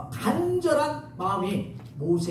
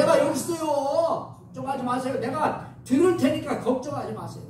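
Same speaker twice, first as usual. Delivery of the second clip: high-pitched calling reply; acted eager answer; 6 semitones higher than usual. Preacher acting out a reply to God's call, high eager answer. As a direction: answer up high, stretching the first phrase.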